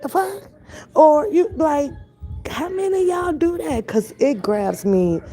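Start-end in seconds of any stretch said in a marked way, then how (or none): 0.0-0.4 baffled huh. Retold or imitated. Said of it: "or it says".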